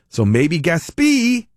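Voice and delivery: "Gaspee" as gas-PEE, slow and drawn out; stress on second syllable. Shown as a demonstration. Host concluding the pronunciation debate, slow "Gaspee" as gas-PEE. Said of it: "put the emphasis on whatever syllable".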